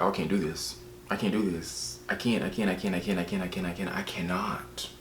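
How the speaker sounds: low-volume muttered panic, played for comedy; mock overwhelmed refusal. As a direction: mutter it softly, over and over, as if backing away.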